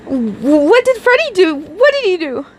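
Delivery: high, worried cry; troubled cry. Acted. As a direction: call out anxious and timid. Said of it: "cried out in a troubled tone".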